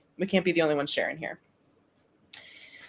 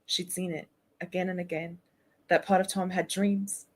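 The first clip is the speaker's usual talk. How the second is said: softer British story reading; attempted British accent; 6 dB quieter than usual. Streamer reading Wendy's story to the group, attempted British accent. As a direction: read it quietly in an amateur British accent. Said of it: "Okay, then let's do British".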